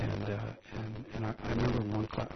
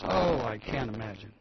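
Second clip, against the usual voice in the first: sarcastic; 5 dB louder, slower than usual. Acted. Mock surprise at corruption.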